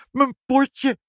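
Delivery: very high, loud cry of delight; astonished, high-pitched exclamation; overjoyed shout. A narrator's reading. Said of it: "schreeuwde hij".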